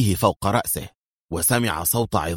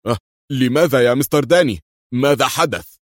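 fast, higher and louder alarm; frightened; 5 semitones higher, 5 dB louder than usual. A narrator's reading. Hussein asks Danny in fright, alarmed. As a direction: jerk back in fright. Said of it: "بذعر".

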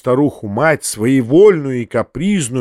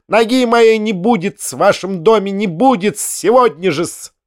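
offended companion; 7 semitones higher than usual. A narrator's reading. Companion answers the uncle, a high huffy retort. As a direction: bristle with wounded pride.

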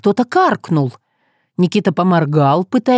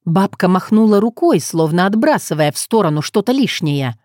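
ordinary delivery

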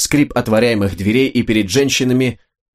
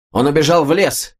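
higher-pitched narrated shout; excited shout; 6 semitones higher than usual. A narrator's reading. Nobleman alerts the others to the fugitive, high excited call. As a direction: call it out high, without full volume. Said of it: "крикнул какой-то шляхтич".

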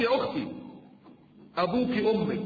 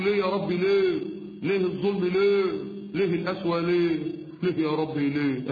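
mock lament crying out why; هزار بصوت ولولة; mock wailing. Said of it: "مش تصوتي وتلطمي على وشك".

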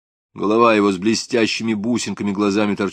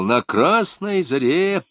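feverish muttering; 7 semitones higher than usual. Acted. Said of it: "лихорадочно быстро забормотал он".

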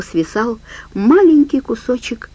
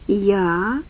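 whining; 5 dB quieter than usual. Acted. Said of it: "проскулил волк".

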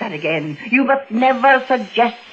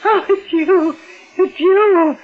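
hysterical relief; 5 semitones higher than usual. Acted. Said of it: "I'm hysterical".

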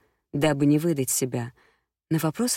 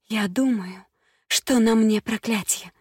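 высокий голос, со значением; признаётся с испуганным придыханием; взволнованная дама; 6 semitones higher than usual. A narrator's reading. Прилс признаётся гадалке. (высоким голосом, с трепетом)

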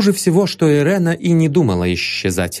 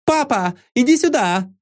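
much higher call across the room; 13 semitones higher than usual. A narrator's reading. Irena calls her father over through the crowd, high call. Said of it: "закричала Ирена".

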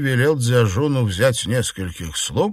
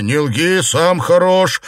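stern retort; 6 semitones higher, 5 dB louder than usual. Acted. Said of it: "промолвил Лю Сянлянь".

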